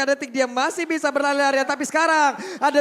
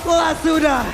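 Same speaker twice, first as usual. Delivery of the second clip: esports caster; 2 semitones higher than usual. Acted. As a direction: shout the fight as it happens. Live play-by-play of a teamfight.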